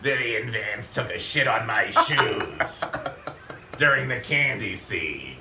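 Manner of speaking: put-on slow, bitter old smoker lady; smoker's voice. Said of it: "bitter about something with that smoker's voice".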